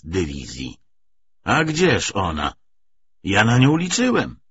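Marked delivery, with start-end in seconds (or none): 1.4-4.4 the army commander exclaims as he rises from the table; exclaiming. Acted. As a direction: cry out at the missing division. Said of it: "wykrzyknął komandarm Szuwajew".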